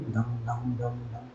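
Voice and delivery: imitated soft thud. Shown as a demonstration. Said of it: "इस तरीके से आवाज़ होती है".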